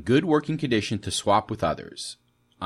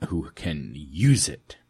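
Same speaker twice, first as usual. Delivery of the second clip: infomercial voice; 5 dB louder than usual. Acted. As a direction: sell it like a TV ad. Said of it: "I sound like a infomercial".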